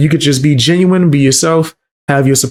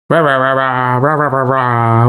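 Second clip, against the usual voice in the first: mock gibberish. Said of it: "What, what is that supposed to be?".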